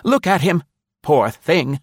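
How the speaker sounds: put-on high, loud old woman full of pity; elderly lady crying out, high. A narrator's reading. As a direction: mourn the poor dog. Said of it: "exclaimed indignantly".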